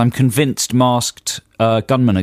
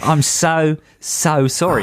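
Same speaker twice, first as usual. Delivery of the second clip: put-on Australian accent; 4 semitones higher, much slower than usual. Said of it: "in the correct accent".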